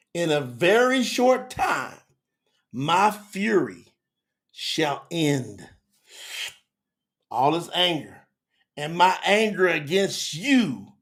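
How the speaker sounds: slow, weighty scripture declamation; preached prophecy. Acted. Preacher reading God's promise that his fury shall end, slow preached prophecy. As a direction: draw out each phrase as a solemn pronouncement.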